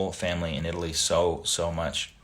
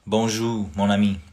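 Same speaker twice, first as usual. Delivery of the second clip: French greeting. Shown as a demonstration. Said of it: "He asked me to speak French".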